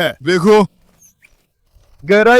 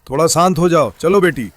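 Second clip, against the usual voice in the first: soothing; 5 semitones lower than usual. Real, not acted. Owner soothes barking dog.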